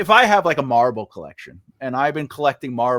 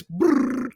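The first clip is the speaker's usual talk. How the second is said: gorilla grunt imitation; 8 semitones higher than usual. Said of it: "it sounds like a little high pitch".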